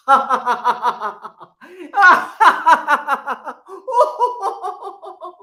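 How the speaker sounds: loud, high ha-ha laugh; greeting with a laugh. Shown as a demonstration. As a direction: greet the screen with a big laugh. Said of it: "I say".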